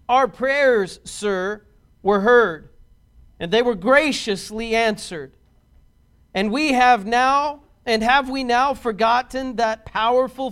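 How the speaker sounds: measured, emphatic formal address with weighty pauses; oratorical quotation reading. Acted. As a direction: deliver it like a statesman addressing the assembly. Reads out Franklin's speech.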